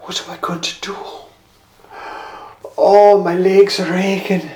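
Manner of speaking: weary lament. Acted. Philip's inner lament.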